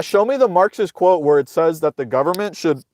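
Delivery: hiccuping mid-sentence; talking through the hiccups. Real, not acted. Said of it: "I don't know why I have the hiccups".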